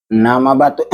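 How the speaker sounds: hoarse, scratchy smoker's throat; itchy throat rasp. Real, not acted. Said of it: "nih suaranya agak ini serak". (suara serak perokok)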